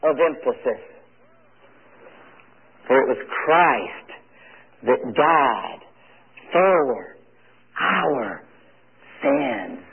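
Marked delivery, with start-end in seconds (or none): 2.9-9.8 long pauses around "died", "for", "our", "sins"; lower, weighty, "Christ... died... for... our... sins" one word at a time; stress on every word. Shown as a demonstration. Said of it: "Every word deserves emphasis".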